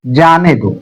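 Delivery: जाने दो set apart, falling at the end; separate phrase after pause. Shown as a demonstration. Teacher completing the second sentence after the comma, falling on दो. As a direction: give जाने दो alone, as the part after the comma. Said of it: "यहाँ मैंने comma लगा दिया".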